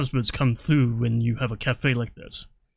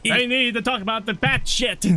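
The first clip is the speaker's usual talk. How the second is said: Russian accent attempt; 6 semitones higher than usual. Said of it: "that voice kinda went in and out of Pennywise".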